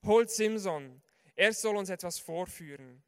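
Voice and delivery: loud mocking summons; rowdy crowd call. A narrator's reading. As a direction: shout it like a mob demanding a show. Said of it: "riefen sie".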